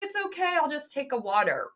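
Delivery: awkward polite refusal. Retold or imitated. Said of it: "I'm gonna be awkward and be like".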